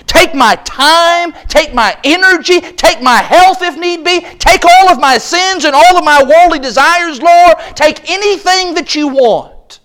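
glad surrender. Acted. Sermon voicing glad surrender prayer.

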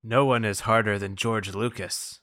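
deadpan movie line; flat line reading. Acted. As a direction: say it flat, no energy. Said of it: "You don't have to do that".

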